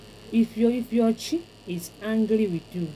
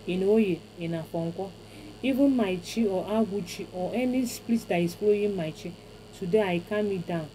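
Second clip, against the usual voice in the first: ritual prayer. Acted. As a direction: intone it as a blessing to the spirits. Recites the calming prayer.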